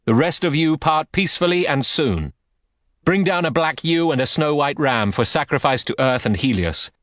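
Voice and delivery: a wounded king agreeing to peace; Menelaus answering. Acted.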